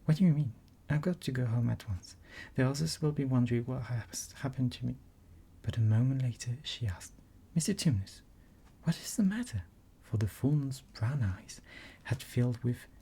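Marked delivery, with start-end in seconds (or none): 0.0-5.0 a touch of alarm, hurrying; mildly frightened girl; Lucy rushing, lightly scared. Acted. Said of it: "feeling rather frightened". 7.5-9.6 put-on higher, lightly concerned girl; a hint of an anxious child; worried Lucy. Lucy's concern.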